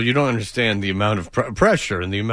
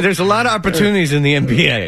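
louder and quicker, sarcastic player voice; mock benchwarmer; 4 semitones higher, 4 dB louder, faster than usual. Mocking a benched Bulls player to his cohosts, fast and louder. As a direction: rattle it off like a smug bench player.

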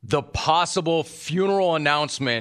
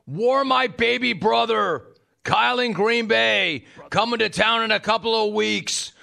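much higher, slow, hammy yelling caller; Rick in Buffalo voice; 9 semitones higher, slower than usual. Acted. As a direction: keep shouting as the rowdy caller. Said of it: "read this in his voice".

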